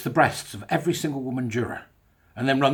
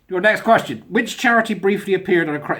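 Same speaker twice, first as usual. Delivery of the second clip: BBC quizmaster; 6 semitones higher, 5 dB louder than usual. Acted. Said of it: "supposed to be the bloke from the B B C".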